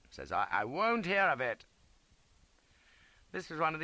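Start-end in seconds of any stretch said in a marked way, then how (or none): 0.5-1.6 stern officer. A narrator's reading. Officer refuses.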